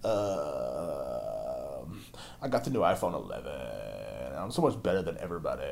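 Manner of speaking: low, soft, drawn-out self-absorbed whine; mocked millennial parent. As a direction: drag out the word endings, mocking vapid parents. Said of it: "their parents are sitting there at the table talking like".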